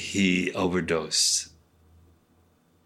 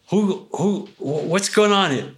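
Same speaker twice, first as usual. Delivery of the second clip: imitating the director; 9 semitones higher, 4 dB louder than usual. Director running over, confused.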